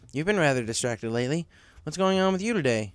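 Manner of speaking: a friendly manager asking what's wrong; Cloud Kicker voice. Acted.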